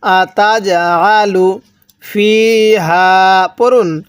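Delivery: slow drawn-out tajweed chanting; slow recitation. Shown as a demonstration. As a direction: recite slowly for students to echo. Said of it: "আমার সাথে পড়ুন".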